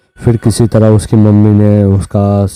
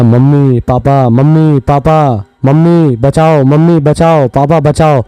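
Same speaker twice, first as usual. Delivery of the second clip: higher, mock panicked calling for rescue; retold frightened screaming, a touch higher; imitated cries for help; 5 semitones higher, slower than usual. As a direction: reenact the boy begging his parents to save him. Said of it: "वो अचानक चिल्लाने लग गया".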